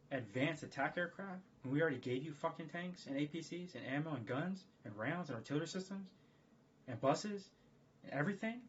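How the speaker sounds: rising mock-exasperated rant; exasperated official. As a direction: scold an ally who already has everything. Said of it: "the U S federal government doesn't wanna tell Ukraine to their face, like".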